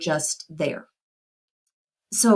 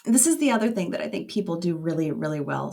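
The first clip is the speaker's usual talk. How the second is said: teary; 3 semitones higher than usual. Real, not acted. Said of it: "Sorry, I'm a little teary here".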